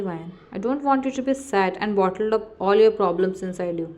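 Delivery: reassuring her, tender; gentle. Acted. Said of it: "He gently held you".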